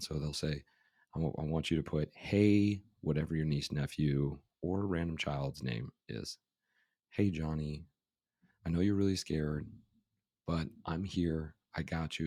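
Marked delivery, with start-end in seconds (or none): none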